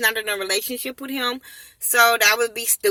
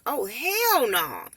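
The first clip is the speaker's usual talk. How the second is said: slow drawn-out refusal; 4 dB quieter, much slower than usual. Retold or imitated. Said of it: "I'm like".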